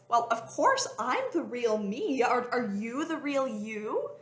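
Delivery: slow, gentle teasing answer; slow playful mermaid comeback; playful mermaid reply. Retold or imitated. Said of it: "one of my go-to is".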